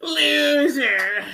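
high, drawn-out taunting "loser"; Roger. Retold or imitated. Cartoon bully always calling him a loser, mocking high voice. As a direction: stretch it out as a high-pitched jeer. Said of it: "he always calling him a loser".

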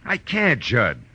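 high, startled no; sharp refusal. Acted. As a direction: blurt out the refusal. Refusing friend's plea.

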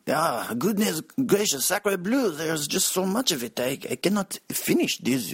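put-on high, hammy French accent; overdone French diner, sacre bleu. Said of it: "a bunch of Frenchies".

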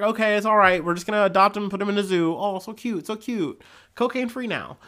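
breezily gush, putting on their voice; mock cooing reassurance. Podcaster mimicking people adopting the serval, mock cooing.

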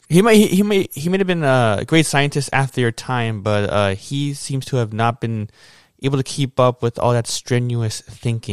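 smooth bluffing. Acted. Player character lying to the scientist about his friend, smooth and sly. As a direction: talk your way past the scientist.

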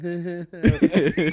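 goofy imitated chuckle; imitated snicker. Tugboat after spraying his coworker, imitated snicker. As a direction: mimic a prankster's little laugh. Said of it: "Tugboat's like".

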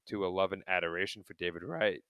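real voice crack while talking; voice cracking up an octave. Real, not acted. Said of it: "Oh my God, my voice cracked".

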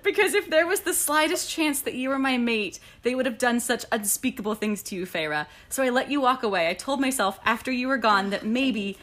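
tender reading. Acted. Reading the book's love confession.

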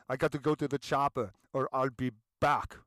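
loud action-hero catchphrase impression; Arnold Schwarzenegger. Lecturer quoting the star's film lines, impersonation. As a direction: imitate the film star's famous lines, punched out. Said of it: "he uses the line".

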